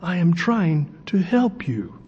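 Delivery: calmed down, measured reassurance; Gandalf. Acted. Wizard calming back into himself to reassure Bilbo, calm. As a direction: settle back from booming into gentle firmness. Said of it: "he calms back into himself again".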